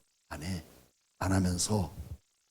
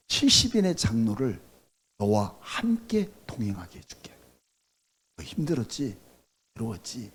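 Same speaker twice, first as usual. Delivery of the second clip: tender comfort; 3 semitones lower, 4 dB quieter than usual. Acted. God comforting Moses tenderly.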